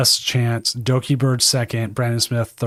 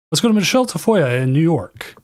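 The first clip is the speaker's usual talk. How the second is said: a hint of a sportscaster; lightly voiced network hand-off; football announcer; 4 semitones higher than usual. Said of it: "I'm trying to work on it".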